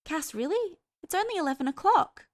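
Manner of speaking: high, incredulous character voice; protesting Hester. A narrator's reading. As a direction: push the pitch way up in protest. Hester protests his leaving.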